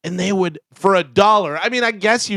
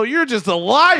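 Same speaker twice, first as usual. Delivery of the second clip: pranker's accusation; 10 semitones higher than usual. Retold or imitated. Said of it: "he'll go".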